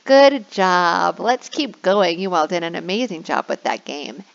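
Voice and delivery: put-on shower the kids with praise; sing-song high teacher cheering the class; effusive praise. Shown as a demonstration. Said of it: "And you can say".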